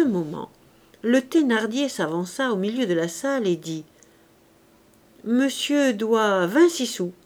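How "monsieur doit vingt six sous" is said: measured, drawn-out statement; slow pronouncement, settling at the end; slow announcement. Acted. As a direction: spell out the bill deliberately. Husband solemnly announces the real bill.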